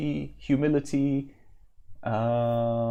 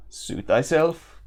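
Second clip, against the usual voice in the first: put-on slow, shrugging old sailor; gruff old fisherman; 4 semitones higher, much slower than usual. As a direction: drawl it, unbothered. Player voices old sailor.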